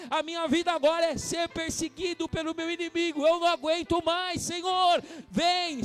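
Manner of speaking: rising into a pained, pleading cry; David's anguished plea. Acted. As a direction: cry out to God as if no strength is left. Voicing David's desperate lament. (clamor angustiado de Davi)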